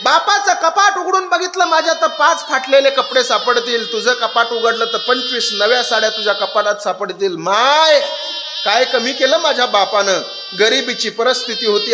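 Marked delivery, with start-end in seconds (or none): 0.0-6.3 tearful reproach. Acted. Daughter defends father, crying. 7.4-10.2 anguished cry. Acted. Daughter cries out to mother.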